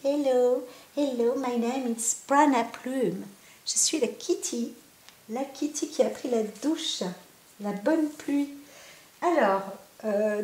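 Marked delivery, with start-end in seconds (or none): 0.0-8.5 voicing the cat Prana Plume. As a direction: speak for the cat as it greets the camera. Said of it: "tu dis bonjour à la caméra".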